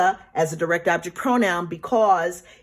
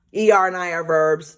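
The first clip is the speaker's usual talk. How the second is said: whisper; 4 dB louder than usual. Real, not acted. Whisper heard, unvoiced.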